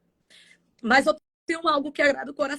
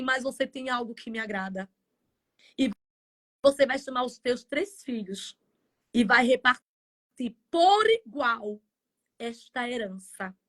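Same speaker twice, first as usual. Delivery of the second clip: voice of God. Retold or imitated. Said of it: "o Senhor disse assim".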